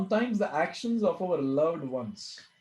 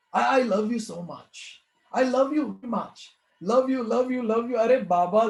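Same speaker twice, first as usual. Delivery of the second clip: put-on higher, cooing mother hushing a baby; doting mother; 5 semitones higher, 3 dB louder than usual. Mother soothing her crying newborn at night, cooing. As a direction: coo the love you's over and over.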